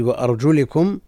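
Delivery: وأرجلكم with an i after the lam, "wa-arjulikum"; kasra reading. Shown as a demonstration. Teacher cites the variant Quran reading, وأرجلكم with "li". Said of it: "بالخفض".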